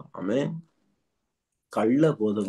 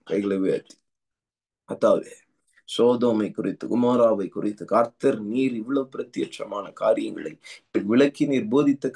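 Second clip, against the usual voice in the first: intense tongues-filled prayer, rhythmic and urgent; fervent prayer. Acted. Pastor leading congregation in prayer, fervent. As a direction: pray over the church with rising fervour.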